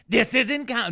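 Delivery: shitty voice. Retold or imitated. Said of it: "I'm gonna do it in a shitty voice".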